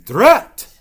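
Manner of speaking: high, loud Drat; cross exclamation. Acted. Ghost cursing the stuck pumpkin, annoyed. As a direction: blurt it out, frustrated. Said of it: "said the vampire".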